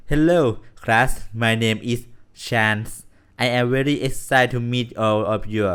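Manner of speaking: loud, bright hello to the class; new teacher greeting. Acted. Gamer voices Chance greeting the class, loud cheerful hello.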